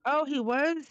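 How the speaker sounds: high, loud "oh, he was?"; genuinely taken aback; shocked surprise. Real, not acted. Hearing caller was trolling.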